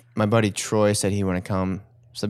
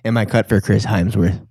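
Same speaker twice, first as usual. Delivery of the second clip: Australian accent; 5 dB louder than usual. Shown as a demonstration. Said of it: "practicing my Australian accent".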